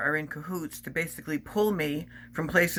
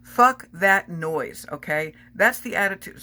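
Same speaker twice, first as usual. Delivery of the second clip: slow, louder outburst, the first words dragged out; getting loud; 3 semitones higher, 5 dB louder, slower than usual. Real, not acted. Ranting to viewers about victim blaming, loud. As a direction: let the anger spill over, loud and deliberate. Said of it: "Sorry, I'm getting really loud".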